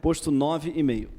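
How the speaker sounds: slow, measured title reading; poem title reading. Acted. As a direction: announce the poem's title slowly. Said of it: "vamos ler".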